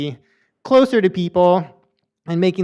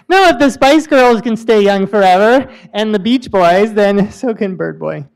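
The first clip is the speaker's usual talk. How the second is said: playful excited; 3 semitones higher, 6 dB louder than usual. Real, not acted. Joking about Bird Boy.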